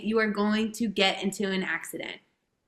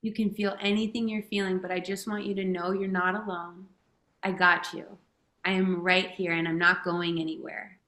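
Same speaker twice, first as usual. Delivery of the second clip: tender reassurance; 2 semitones lower than usual. Retold or imitated. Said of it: "like you would a young kid that you love".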